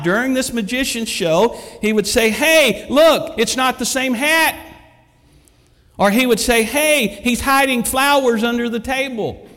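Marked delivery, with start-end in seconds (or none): 2.3-4.6 high, loud heckle; parrot yelling out. Retold or imitated. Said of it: "the parrot started yelling out". 6.6-9.5 high, loud tattling; parrot yelling out. Retold or imitated. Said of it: "the parrot started yelling out".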